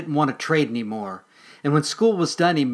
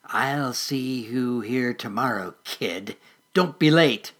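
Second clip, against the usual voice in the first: menacing mole voice; 3 dB louder, slower than usual. Acted. Mole parting threat.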